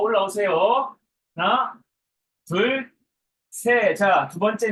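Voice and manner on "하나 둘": ordinary talk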